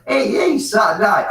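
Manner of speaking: high, loud boozy whoop. Real, not acted. Tipsy man cheering for the weekend to his mate, loud whoop. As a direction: whoop it up like a Saturday night out. Drunken cheer mid-chat.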